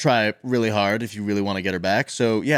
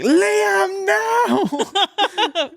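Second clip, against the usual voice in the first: meme quote; 4 dB louder than usual. Retold or imitated. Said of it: "you know that audio from".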